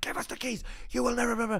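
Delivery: acted, frantic, high, shrill shrieking. Telling a story about the locked toilets, acting out others: retelling people screaming. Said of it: "they are screaming".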